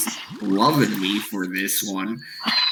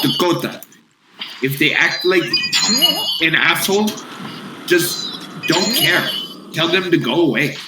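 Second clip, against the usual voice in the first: Russian boss; 4 semitones higher than usual. Retold or imitated. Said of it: "I have a boss that's Russian".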